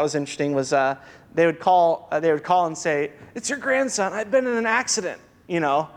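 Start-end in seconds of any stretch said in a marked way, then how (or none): 3.3-5.2 scam caller's higher-pitched mock Indian accent. Scam caller posing as grandson after an accident, mock Indian accent. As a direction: put on a high Indian accent as a supposed grandson. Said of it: "you suddenly got an Indian accent?".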